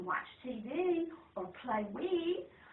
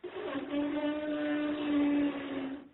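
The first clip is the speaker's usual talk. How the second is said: blowing at candle; 3 dB louder than usual. Acted. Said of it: "and he goes".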